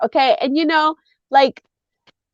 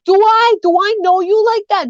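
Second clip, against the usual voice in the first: mock-confrontational New York voice, pitched up; New York accent; 6 semitones higher than usual. Shown as a demonstration. Joker showing how cursing starts, New York challenge. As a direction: play a New Yorker squaring up. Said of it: "I do my New York accent".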